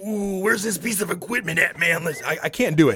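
wrestling announcer-style voice. Retelling how a friend asked for equipment: Macho Man Randy Savage impression. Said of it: "the best Macho Man Randy Savage impersonation".

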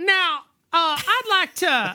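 put-on southern US accent. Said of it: "I was doing My Cousin Vinny".

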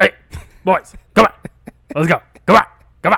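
hurried, loud, fast, put-on dad voice. Acting out your shameless dad calling his boys along when you were growing up, imitating his dad. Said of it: "let me uh imitate my dad here".

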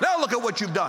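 plain

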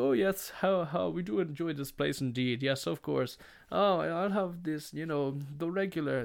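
chuckling, laughing, relaxed casual chatter. Retelling how restaurant regulars laugh and order: imitating laughing restaurant regulars. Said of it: "And they're laughing, just like".

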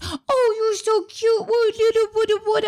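put-on very high-pitched baby talk. Retelling a woman holding up a rat: imitating baby talk. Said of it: "baby talk to it".

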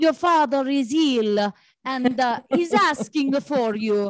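poor put-on Italian accent. Retelling a phone call from a man's mom, bad Italian accent. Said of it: "his mom is like the worst Italian accent you've".

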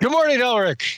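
loud, very high-pitched exclaiming. A player's character greets another character releasing a bird: loud exclamation. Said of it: "I loudly exclaim".

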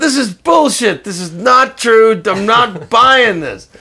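very high, very loud, full-throated shrill screaming. Retelling how Weingart reacted to a guitarist's claim, imitating Weingart screaming. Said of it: "He starts screaming".

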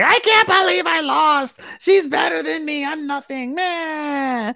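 acted, very high, slow, blubbering bawling sob. Retelling how a character cried in her car after losing: imitating bawling. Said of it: "she's bawling, crying, like".

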